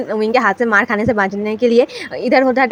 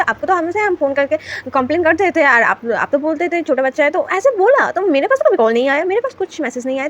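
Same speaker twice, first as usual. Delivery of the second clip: agitated complaint; 5 semitones higher than usual. Acted. Wing upset, explains school phone trick.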